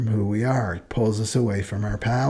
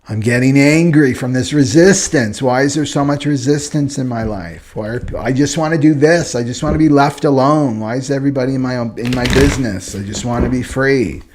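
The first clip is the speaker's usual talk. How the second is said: louder, pitched-up exasperated outburst; frustrated complaint; 3 semitones higher, 5 dB louder than usual. Acted. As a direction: vent like someone fed up with interference. Voicing a frustrated manifestor's complaint.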